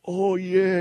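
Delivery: high, delighted recall; mock fond recognition. Host voicing listeners who remember Mad magazine, high and pleased.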